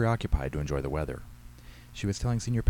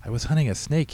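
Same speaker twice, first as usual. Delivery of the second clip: put-on higher-pitched child's voice; little boy; 7 semitones higher, 3 dB louder than usual. A narrator's reading. Six-year-old explaining himself to his mother, boyish.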